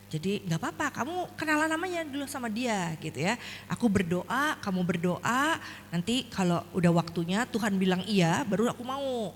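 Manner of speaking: mild, patient reassurance; nice, gentle talk. Retold or imitated. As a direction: reason kindly with your child. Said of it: "ya, ngomongnya baik-baik gitu".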